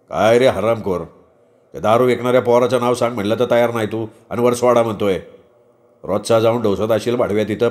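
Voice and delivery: lightly voiced policeman berating a detainee; a hint of a bullying interrogator; scolding policeman. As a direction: berate and threaten the suspect. Policeman interrogates, abuses drunk student.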